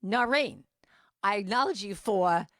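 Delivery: put-on loud, emphatic New York accent; Noreen. Friend praising herself in the mirror, mock New York accent. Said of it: "So she says".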